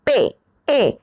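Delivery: पे with a straight e and no glide; flat clean पे; pron demo. Shown as a demonstration. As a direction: sound out पे, then ए alone. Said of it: "इसको बोलते हैं पे".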